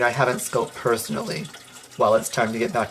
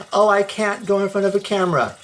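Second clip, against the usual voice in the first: whiny mock excuse; 6 semitones higher, faster than usual. Mocking people's excuses.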